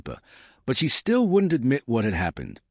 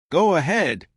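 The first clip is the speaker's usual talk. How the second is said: eager, higher push; urging; 7 semitones higher than usual. A narrator's reading. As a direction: nudge her to go on. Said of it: "he urged".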